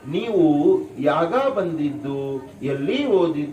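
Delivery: slow, exaggerated Kannada speech for a laugh; lightly imitating a Kannada speaker, drawn out; mock Kannada accent. Teacher mimics learners of Kannada for students, in a slow mock Kannada accent. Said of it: "یا اس طریقے سے بولیں گے کہ آپ کو ان کی کنڑا سن کر ہنسی آئے گی".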